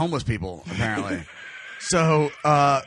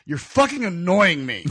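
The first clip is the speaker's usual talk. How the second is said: retold annoyance; 3 semitones higher, 4 dB louder, slower than usual. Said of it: "Nick just looks at me and goes".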